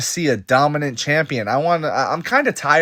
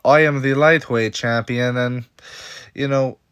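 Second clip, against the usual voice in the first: lightly imitated Islam Makhachev accent; Islam Makhachev impression. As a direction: attempt his accented speech, with a slip of McGregor. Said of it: "That's my best impression of it".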